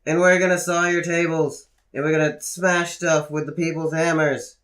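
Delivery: rally the crowd like a wrestler; rallying wrestler promo. Acted. Wrestler declaring war on the establishment, rallying promo. Acts out wrestler's rebel speech.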